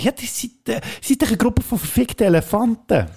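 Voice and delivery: lightly voiced annoyed Colin Farrell; mock grumpy hitman. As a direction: toss off the insult like a fed-up killer. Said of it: "sagt er am Schluss".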